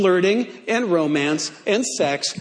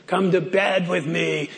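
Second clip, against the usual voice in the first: gravelly voice; 4 semitones lower, 3 dB quieter than usual. Acted. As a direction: purr it low and gravelly. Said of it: "Gotta give her kind of a gravelly voice".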